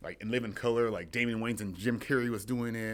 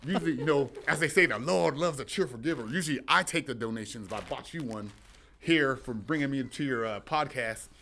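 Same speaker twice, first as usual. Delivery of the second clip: preacher-style pitch, raised and loud; shady pastor voice; 3 semitones higher, 5 dB louder than usual. Acted. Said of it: "Bishop Thunderbird".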